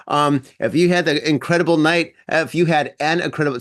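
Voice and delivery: tongue-tied hungover restart; hungover stumble. Real, not acted. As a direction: stumble over the words, hungover. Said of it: "see, I can't even talk".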